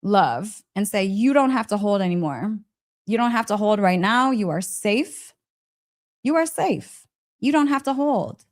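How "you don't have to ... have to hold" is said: gentle reassurance. Shown as a demonstration. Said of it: "consciously send those places love and say".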